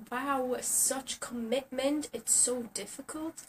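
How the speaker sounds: slow, dripping sarcasm; sarcastic. Real, not acted. Mocking people who won't brush, slow and sarcastic. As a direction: drag it out mockingly.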